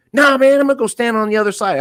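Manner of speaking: high, slowed backpedalling voice; mock street guy. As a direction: play the guy caught out, nervously backing off. Voicing the guy in the road.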